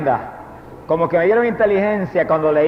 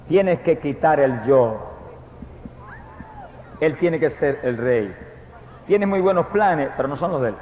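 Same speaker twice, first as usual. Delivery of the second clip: lower, softer, slow divine voice; hushed voice of God; 4 semitones lower, 6 dB quieter, slower than usual. Retold or imitated. God gently correcting the preacher, low and hushed. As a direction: speak it low and solemn as God. God's voice speaking to him.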